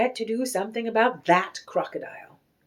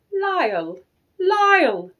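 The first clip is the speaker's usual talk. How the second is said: calling a name across the store, rising loud; 8 semitones higher, 5 dB louder, slower than usual. A narrator's reading. Valenti calling to Lyle across the store, loud call. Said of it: "the voice called out".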